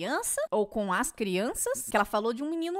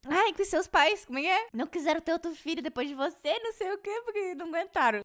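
imitated questioner; 7 semitones higher than usual. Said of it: "É que ele falou assim".

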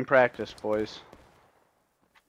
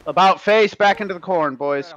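shouted orders; 5 semitones higher, 4 dB louder than usual. Acted. Ordering retreat after volley.

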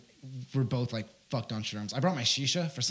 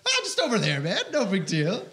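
casual innocence; 5 semitones higher than usual. Retold or imitated. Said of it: "And I'm like".

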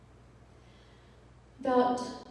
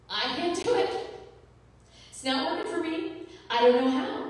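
reliving ugly crying; 7 semitones higher, 4 dB louder than usual. Retold or imitated. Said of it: "I was ugly crying then".

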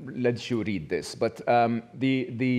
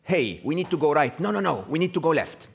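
slightly higher, insistent inner voice; arguing inner voice; 5 semitones higher, 4 dB louder than usual. Acted. Speaker to audience, voicing a woman's self-contradicting thoughts, lightly acted arguing. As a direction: lightly act out someone disagreeing with herself. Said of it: "does she sometimes say".

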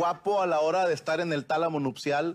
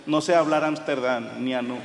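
panicked; 2 semitones lower, 5 dB louder than usual. Retold or imitated. Lost, scared in Amsterdam.

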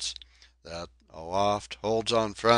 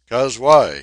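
loud, higher outburst; 5 semitones higher, 15 dB louder than usual. Acted. Donkin bellowing to the forecastle. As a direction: bellow the question. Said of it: "he continued very loud".

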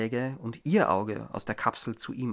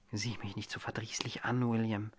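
soft unvoiced whisper, much softer; 3 semitones lower, 9 dB quieter than usual. A narrator's reading. Mary whispering to her husband's eye, hushed. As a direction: breathe it to him so no one else hears. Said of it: "sagte sie leise".

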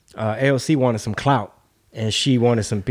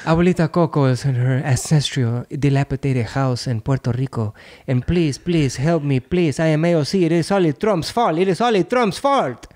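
AOC impression; 3 semitones higher than usual. Congresswoman begging help for grandmother, exaggerated mock Spanish accent. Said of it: "Why you sound like Speedy Gonzalez? It's supposed to be A O C".

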